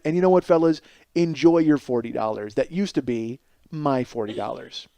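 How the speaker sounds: low, resigned admission of defeat; licking your wounds. Acted. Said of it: "lick your wounds and go".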